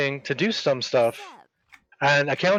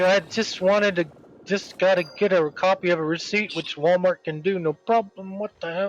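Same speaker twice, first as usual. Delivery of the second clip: higher, bewildered complaint; a hint of disbelief; mildly incredulous; 4 semitones higher than usual. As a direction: retell being baffled. His baffled inner reaction retold.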